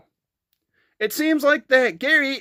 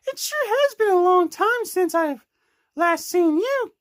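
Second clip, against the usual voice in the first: lightly voiced higher Amy; higher girl voice; 5 semitones higher than usual. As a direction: lift the pitch for a girl character.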